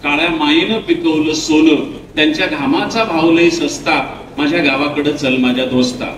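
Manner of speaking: poem recitation. Retold or imitated. Poet reciting his verse to schoolchildren, measured recital. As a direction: recite the lines like a poem for students. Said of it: "म्हटलं".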